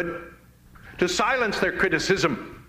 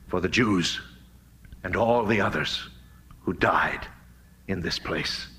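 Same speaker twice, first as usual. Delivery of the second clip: solemn reading; 3 semitones lower than usual. Retold or imitated. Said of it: "the slogan on that ribbon said".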